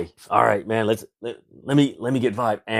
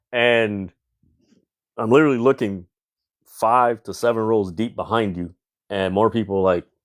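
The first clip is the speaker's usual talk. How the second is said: ordinary delivery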